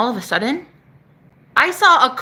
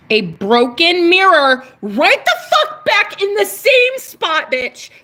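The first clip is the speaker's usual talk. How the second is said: higher, louder, slow and laughing; laughing in disbelief; 6 semitones higher, 4 dB louder, slower than usual. Real, not acted. Seeing the mirror returned, laughing in disbelief. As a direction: laugh it out, unable to believe it.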